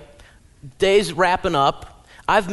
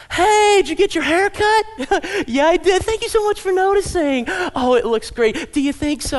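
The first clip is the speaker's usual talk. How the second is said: put-on high, loud gushing girly chatter; gushing women; 11 semitones higher, 4 dB louder than usual. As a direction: mimic two women gushing about a haircut. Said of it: "Typical conversation between two women".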